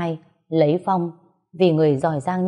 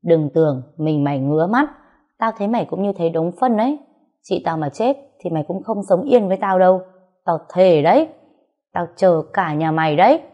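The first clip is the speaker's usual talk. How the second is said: through gritted teeth. Acted. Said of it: "Tôi nghiến răng bảo Hùng".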